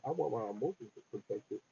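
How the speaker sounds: muffled, mouth too close to the phone; talking muffled into the phone. Real, not acted. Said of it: "I think your voice got muffled a little bit".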